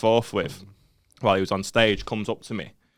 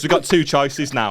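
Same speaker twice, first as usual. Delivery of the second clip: laughing retelling; 3 semitones higher than usual. Retold or imitated. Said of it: "He goes".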